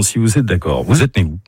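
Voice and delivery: usual speaking voice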